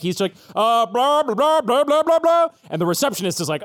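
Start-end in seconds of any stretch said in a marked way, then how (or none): 0.5-2.5 higher, climbing blah-blah; officer's gibberish. Acted. Police officer to receptionist, rising gibberish. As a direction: babble it upward like garbled human talk.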